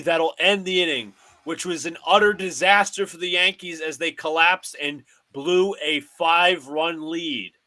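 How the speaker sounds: broadcaster cadence, calling each pitch; mock radio play-by-play of a Yankees game. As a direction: call the game like a TV announcer.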